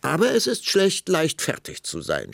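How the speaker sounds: high, loud burst, dropping at the end; snorting impatience. A narrator's reading. Queen losing patience with the king, snorting. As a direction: snap back, losing patience. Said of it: "schnaubte die Königin, die allmählich die Geduld verlor".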